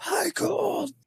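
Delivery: put-on soft, very high, from the back of the throat, old-sounding. Describing a sound in a recording, imitating an old person talking from the back of the throat. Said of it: "like an old person talking from the back of their throat".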